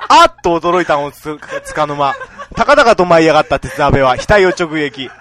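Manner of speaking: loud, lightly voiced old storyteller; Utamaru impression. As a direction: tell it like an old rakugo master. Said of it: "歌丸です".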